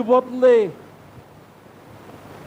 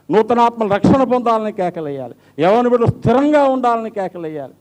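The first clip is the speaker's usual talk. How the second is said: preaching with rising force; 2 semitones higher than usual. Acted. Preaching builds.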